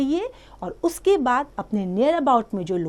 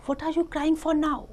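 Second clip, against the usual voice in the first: angry duck; 7 semitones higher, much slower than usual. Acted. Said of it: "said the duck angrily".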